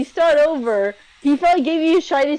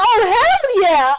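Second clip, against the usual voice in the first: high, slow gleeful yes; eager acceptance; 9 semitones higher, 3 dB louder, slower than usual. Retold or imitated. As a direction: say yes like a greedy kid. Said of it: "He's like".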